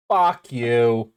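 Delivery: amateur Aussie accent, drawn out; Australian intonation. Shown as a demonstration. Demonstrating the intonation to friends, attempted Australian accent. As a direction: drawl it in a put-on Australian accent. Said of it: "that's the intonation".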